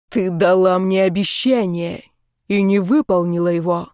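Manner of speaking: grind each word out in cold rage; through gritted teeth. A narrator's reading. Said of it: "процедил Ренгар сквозь зубы".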